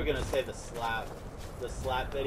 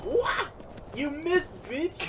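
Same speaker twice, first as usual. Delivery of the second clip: taunting; 11 semitones higher than usual. Real, not acted. Taunting enemy from horse.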